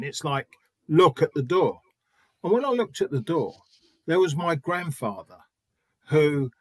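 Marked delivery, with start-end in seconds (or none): 0.9-1.8 louder, firm directive, not a request; head teacher's order. Retold or imitated. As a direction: order it like a head teacher who isn't asking. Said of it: "who's directing you, not asking".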